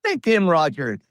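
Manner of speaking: imitating a crowd egging on a wrestler; mock crowd yell. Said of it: "and the crowd yelled".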